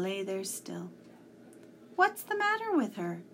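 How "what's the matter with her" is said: high, louder anxious question; a worried boy blurting it out. A narrator's reading. Tom asks about the fallen bird, high and anxious. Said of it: "Tom asked anxiously".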